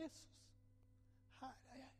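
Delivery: retold prayer. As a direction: lift the voice and surrender everything. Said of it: "Og så sier jeg".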